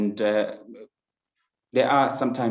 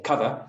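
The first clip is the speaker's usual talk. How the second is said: "cover" with the weight on COV; stress on first syllable; 3 semitones higher than usual. Shown as a demonstration. Teacher explaining stress at the beginning, "cover" stressed up front. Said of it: "it's at the beginning".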